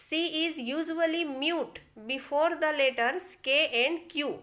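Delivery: slow, deliberate dictation; slow rule reading. Shown as a demonstration. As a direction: read the rule slowly to students. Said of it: "rule टू देखिए". (धीरे नियम पढ़ना)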